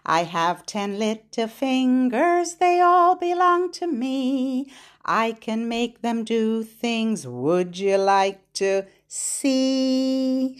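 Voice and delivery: put-on bouncy rhythmic chant for little kids; sing-song finger play. Teacher chants a finger rhyme to children, sing-song.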